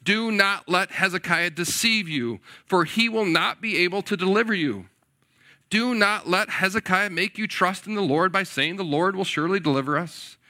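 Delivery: loud herald's taunt; loud proclaiming envoy. Retold or imitated. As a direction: bellow it across the walls. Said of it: "he continues".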